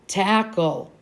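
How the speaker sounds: calm, offhand statement; mild declaration. Acted. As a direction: say it mildly, no fuss. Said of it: "declared Brad mildly".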